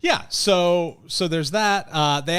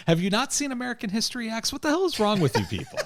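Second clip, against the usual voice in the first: exasperated disbelief; 11 semitones higher, much faster than usual. Real, not acted. Exasperated rant about the tattoo.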